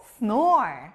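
slow, drawn-out snore; slow model word. Shown as a demonstration. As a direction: stretch snore out for the class. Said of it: "코골다, 영어로".

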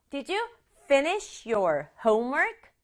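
"finish" and "homework" stressed, "Did you" light; stress on two words. Shown as a demonstration. Teacher showing where mother's question is stressed, finish and homework emphasized. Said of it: "이렇게 강조할 부분만 강조하려면".

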